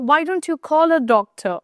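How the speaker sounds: very slow question; slow example. Shown as a demonstration. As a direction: lay out each word. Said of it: "example slowly". (ধীরে ধীরে প্রশ্ন)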